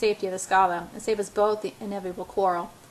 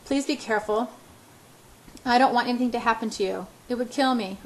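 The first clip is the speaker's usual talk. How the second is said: murmuring; 2 semitones higher than usual. Acted. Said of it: "I murmur".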